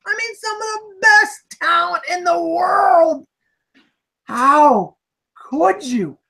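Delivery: slow, high, wailing disbelief; hammed-up lament. Host grieving to the co-hosts that great talent made garbage, in a slow, mock-crying wail. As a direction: mourn the film like a betrayal, drawn out.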